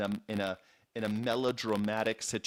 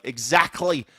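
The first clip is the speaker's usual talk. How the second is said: mock English "exactly", louder; English dialect; 2 semitones higher, 5 dB louder than usual. Quoting Zadie Smith's characters, imitated English dialect. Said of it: "in the dialect of the characters".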